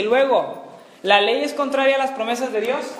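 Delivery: projected Bible reading, lifting into the question; scripture reading. Acted. Teacher reading Galatians to the Bible class, scripture reading. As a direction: read the verse out firmly to the class. Reads the verse aloud to class.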